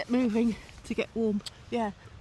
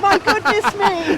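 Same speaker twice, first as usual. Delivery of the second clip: in ice cold water; 4 semitones higher, 8 dB louder, slower than usual. Real, not acted.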